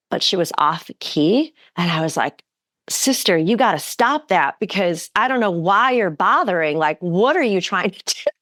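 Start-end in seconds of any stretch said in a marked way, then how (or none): 2.9-8.3 indignant. Retold or imitated. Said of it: "I went all indignant in my head".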